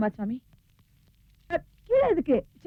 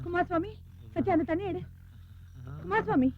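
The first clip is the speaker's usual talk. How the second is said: higher, rising worried call; alarmed call; 6 semitones higher, 8 dB quieter than usual. Acted. Mother sees the accountant collapse, alarmed. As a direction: call his name in sudden alarm.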